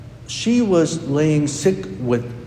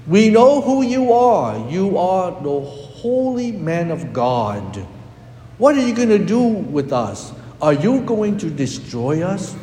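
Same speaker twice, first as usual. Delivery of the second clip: demons crying out; 4 semitones higher than usual. Retold or imitated. Priest voicing demons crying out in fear. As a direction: cry it out like a frightened demon. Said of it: "the demons cried out".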